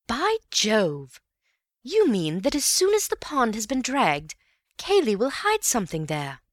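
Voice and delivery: Bill grasping Cayley's plan, excited. A narrator's reading. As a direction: burst out with the realization.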